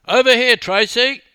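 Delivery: loud, high photographer's shout; calling out. A narrator's reading. Photographer breaking into a swimmer's daydream, calling out. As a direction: shout to get her attention. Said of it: "a photographer interrupted her daydreaming".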